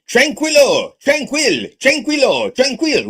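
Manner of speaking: high yelling call across the water; father yelling. Retold or imitated. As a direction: shout it out to calm him, pitched high. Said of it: "nearby in a boat yelling".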